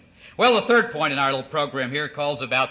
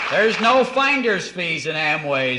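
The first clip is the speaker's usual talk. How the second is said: forceful, slow and louder; emphatic louder; 4 semitones higher, 5 dB louder, slower than usual. Acted. Promising a crowd no fees, forceful and slow. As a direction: hammer each no-fee point home. Emphatic sales pitch claims.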